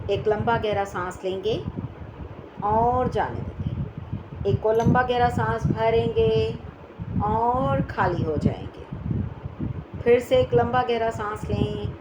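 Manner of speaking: measured breathing instructions with long pauses; guided breathing. Acted. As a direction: guide the breath, drawing out the release. Leads slow breathing exercise.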